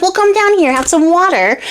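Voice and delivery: high coaxing crone; sweetly luring crone. Acted. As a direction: beckon her down with false kindness. Old cook lures the fairy.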